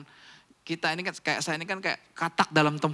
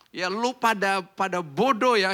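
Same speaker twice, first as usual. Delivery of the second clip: imitating a cocky young influencer, pitched up; arrogant; 4 semitones higher, 5 dB louder, slower than usual. Young investor talking down to his audience, arrogant. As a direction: toss out the insult with mock arrogance, stretching the end. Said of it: "arogan banget gitu ngomongnya".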